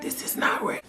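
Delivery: breathy shocked whisper; whispered disbelief. Retold or imitated. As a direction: whisper it to yourself. Alone in room, shocked.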